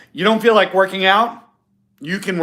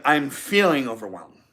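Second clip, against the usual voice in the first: calm feeling statement; 3 semitones lower than usual. Shown as a demonstration. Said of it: "fine line difference between saying".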